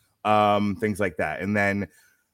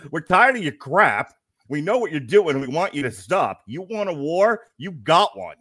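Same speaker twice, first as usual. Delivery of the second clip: loud, higher challenge in a put-on wrestler accent; cocky Razor Ramon promo, louder and higher; 7 semitones higher, 5 dB louder than usual. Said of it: "in the Razor voice".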